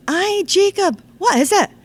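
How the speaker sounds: put-on reply in a Scots accent like a patient friend; Scottish grown-up humouring an eager child. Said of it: "I'm going to do it in the Scots dialect".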